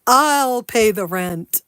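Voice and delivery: slow, grand hero voice; heroic rescuer. Acted. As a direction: step in as the noble hero. Melodrama skit, the hero arrives.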